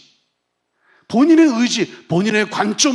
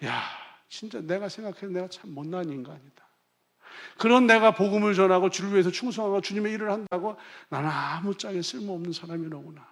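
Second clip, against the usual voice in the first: Peter's dejected lament; 5 dB quieter than usual. Acted. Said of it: "그물질을 하면서".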